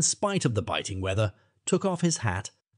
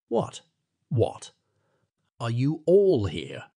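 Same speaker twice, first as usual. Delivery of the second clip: peevish; slower than usual. A narrator's reading. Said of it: "said the lawyer peevishly".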